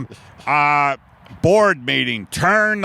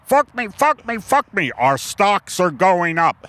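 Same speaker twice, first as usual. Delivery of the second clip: a hammed-up executive losing it; panicked boss shout; 5 semitones higher than usual. Boss reacting to the oil merger news, in a high panicked yell.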